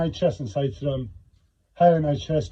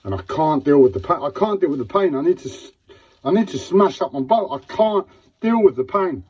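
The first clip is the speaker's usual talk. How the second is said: pained, insistent outburst, pitch raised; real desperation; 4 semitones higher than usual. Real, not acted. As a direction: repeat it desperately, overwhelmed by pain. In pain, desperate repeated outburst.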